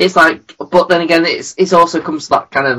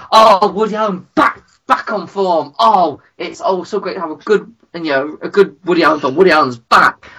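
gushing acclaim; 5 semitones higher than usual. Retold or imitated. Mimicking acclaim for a comeback film.

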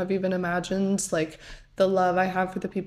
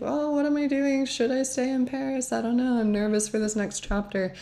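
higher-pitched worrying that gradually settles; mock fretting; 5 semitones higher than usual. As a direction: replay your own last-minute jitters, lightly. Retelling her last-minute panic before leaving.

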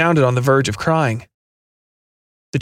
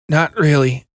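pained; 2 semitones higher, slower than usual. Acted. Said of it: "barely able to keep the pain out of his voice".

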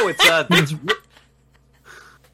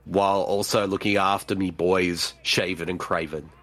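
Russian Crow; 6 semitones lower than usual. Pretend. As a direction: complain in a deep, subdued mock accent. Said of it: "It's Russian Crow".

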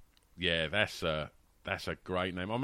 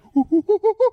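loud, high run of monkey hoots; 9 dB louder than usual. Acted. Imitating Gareth taunting Monkey Alan, monkey hoots. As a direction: hoot rapidly like a mocking monkey. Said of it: "looks across the room and goes".

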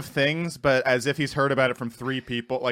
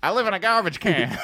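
lightly voiced, higher-pitched comic impression; a hint of Chappelle, pitched up; 4 semitones higher than usual. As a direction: try a rough Chappelle. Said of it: "trying to do Chappelle".

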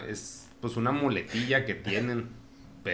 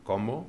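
"Cómo" asked with a rise on the final "mo"; stress on last syllable; 3 semitones higher than usual. Shown as a demonstration. Repeating the question he picked up, "Cómo" stressed on the last syllable. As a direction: lean on the end of "Cómo", Chilango style. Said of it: "acentuaba la última en lugar de la".

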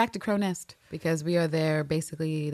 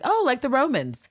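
higher-pitched, pleased realization; mock interest; 8 semitones higher than usual. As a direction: imitate someone delighted to catch on. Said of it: "Captain Lister's like".

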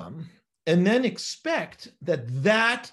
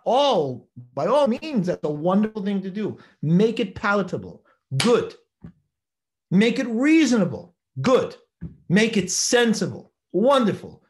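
enthusiastic approval; 2 semitones higher, 5 dB louder than usual. Real, not acted. Teacher encouraging students to find reasons, loud and eager. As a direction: cheer the students on.

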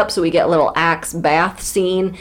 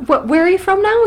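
teasing disbelief; 11 semitones higher, 4 dB louder than usual. Real, not acted. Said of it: "your Russian accent".

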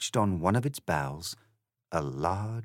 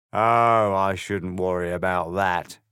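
smug cat; 5 dB louder than usual. Acted. The grinning cat answering Alice with a swagger. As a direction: toss it off like a swaggering pub cat.

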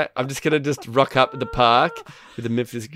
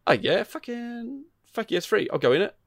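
mock eager gamer; 10 semitones higher than usual. Voicing hypothetical player.

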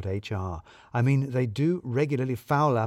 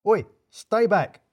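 much higher, slow panicky warning; hysterical Balls; 9 semitones higher, 4 dB louder, slower than usual. A narrator's reading. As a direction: back away in fright. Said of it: "becoming hysterical".

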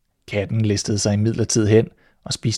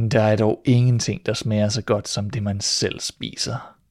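pleased with itself. Acted. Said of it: "velfornøjet med sit dagværk".

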